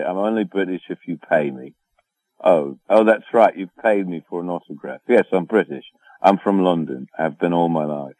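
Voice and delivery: put-on playful London accent, teasing the fans; mock British accent. Teasing a disappointed fan at Comic-Con, mock British accent. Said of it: "I like to play it off".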